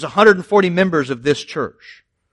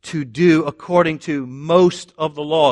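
mock misquote. Shown as a demonstration. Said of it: "as long as you get most of the law right".

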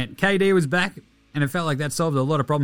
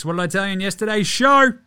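gloating shout; 5 semitones higher, 4 dB louder than usual. Real, not acted. Gloating about his pick.

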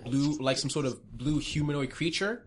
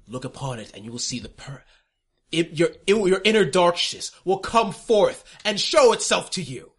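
grand prophetic declaration; 3 semitones higher, 6 dB louder than usual. Acted. NPC presents cube.

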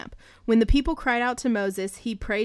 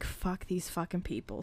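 low-key grumble, much softer; fed-up Moses; 3 semitones lower, 10 dB quieter than usual. Acted. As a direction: say it under your breath, lightly acting fed up. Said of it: "Moses is like".

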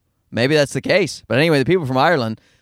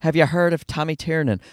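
put-on a touch of lilting Irish accent; lightly imitated Irish lilt; musical Irish sing-song; 3 semitones higher than usual. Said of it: "Musical sing-song voices".

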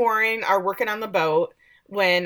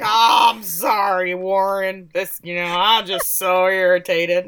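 mock apology; 5 dB louder, slower than usual. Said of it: "then he's like".

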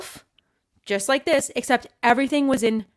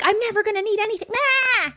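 much higher and fast, carefree brush-off; dismissive teen; 12 semitones higher than usual. Retold or imitated. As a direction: toss it away like a know-it-all kid. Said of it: "you're like".

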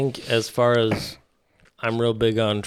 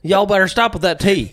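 mock Southern scolding, pitched up; playful higher Southern accent; Southern-accented Redcoats; 5 semitones higher, 3 dB louder than usual. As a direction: warn them as a Southern Redcoat. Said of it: "think about the Redcoats being like".

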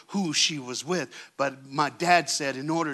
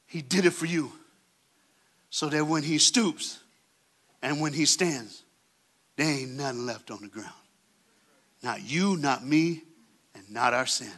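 tender hush; 4 semitones lower, 6 dB quieter than usual. Acted. Soft close after shouting.

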